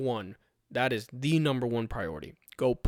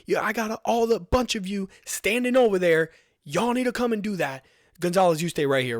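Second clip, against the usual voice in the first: higher mock yell across the room; retold yell; 6 semitones higher than usual. Registration guy calling the other volunteers over, higher mock yell. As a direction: call it out higher like a staff member barking orders. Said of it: "He yells at the other guys".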